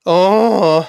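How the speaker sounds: yawning oh. A narrator's reading. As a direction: let it out as a bored yawn. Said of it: "gähnte der Papagei".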